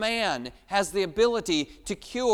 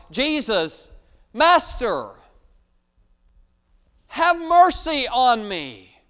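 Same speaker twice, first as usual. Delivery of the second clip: slow, louder plea for mercy; crying out; 4 semitones higher, 7 dB louder, slower than usual. Acted. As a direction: cry out to Jesus. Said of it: "the sinner needs to cry out".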